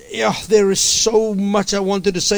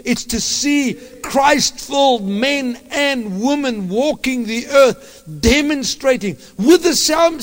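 preaching at full force; 3 semitones higher than usual. Real, not acted. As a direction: preach it out with fire.

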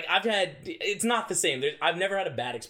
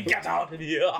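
put-on Boston accent; slower than usual. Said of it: "with the Boston accent".

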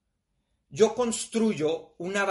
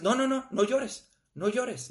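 hushing a mourner, pitched up; mock comforting; 5 semitones higher than usual. Mourner's friend hushing her tears, mild mock voice. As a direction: imitate someone shushing a crying person. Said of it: "y entonces es".

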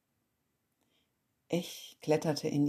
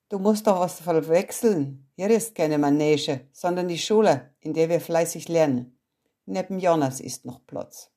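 a hint of a strict teacher, louder; stern teacher; 6 dB louder than usual. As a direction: firmly put the girl in her place. Teacher scolds the new girl. (Lehrerin weist die Neue streng zurecht, etwas lauter)

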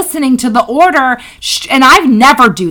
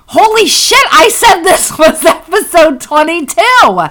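retold shock; 5 semitones higher than usual. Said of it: "I'm like".

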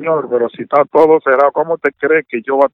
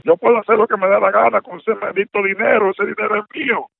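raised pitch, defending his money hotly; indignant outburst; 5 semitones higher than usual. Real, not acted. Man scolding fake Treasury caller, indignant and raised pitch. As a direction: snap back, it's your own money. Victim shouting back at prank caller.

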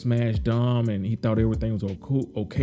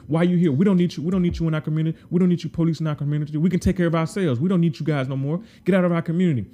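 higher, louder, fast heated shouting; loud angry confrontation; 5 semitones higher, faster than usual. Retold or imitated. Trigg confronting police out loud, louder higher fast angry shouting. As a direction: drive the cops out of the neighborhood. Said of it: "he's talking to the police out loud".

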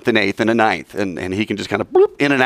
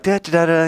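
mock chatter; 7 semitones higher than usual. Imitates Jesus chatting on.

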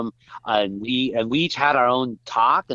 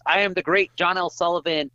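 John L. Sullivan announcing; 3 semitones higher than usual. Retold or imitated. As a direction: lightly imitate a champion announcing himself to the pub. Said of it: "you know, announce".

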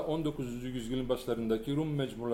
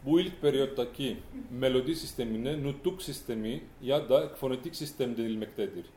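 projecting a bit more for the back rows; speaking up. Real, not acted. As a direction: lift the volume so the far listeners hear. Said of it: "sesinizi biraz daha yükseltirseniz".

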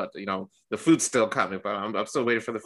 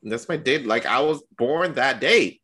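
a touch higher, pleading; imitated insisting; 5 semitones higher, 4 dB louder than usual. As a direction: insist it's real. Retold insisting on birthday.

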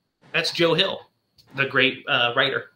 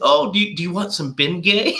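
high, laughing mock wife; 4 semitones higher than usual. Wife offering husband Bengay, laughing mock sweet.

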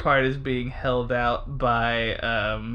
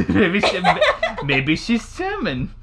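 bad German accent; 2 semitones higher than usual. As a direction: put on a silly German accent. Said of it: "we're just doing bad German accents at each other".

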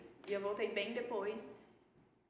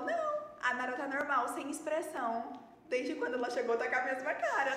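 lightly voiced uncle, louder and higher; tio relatando; 3 semitones higher, 4 dB louder than usual. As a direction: quote the uncle in a livelier, raised voice. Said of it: "Meu tio falou". (imitando o tio, voz um pouco mais alta)

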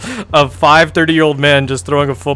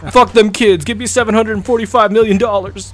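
greedy Tom Brady; 8 semitones higher than usual. Retold or imitated. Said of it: "Tom Brady would be mad".

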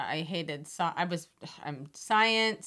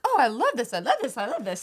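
retold enthusiasm; 4 semitones higher, faster than usual. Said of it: "when I was just doing it for fun".

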